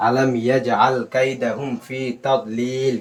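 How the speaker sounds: drawn-out, very slow tajweed chant; teacher modelling a slow verse recitation for students; slow Quran recitation. Shown as a demonstration. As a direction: recite each syllable long and even.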